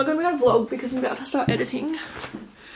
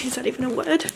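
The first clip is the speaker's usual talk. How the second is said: whispering. Real, not acted. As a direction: whisper it like a private aside. Whispered aside about the word.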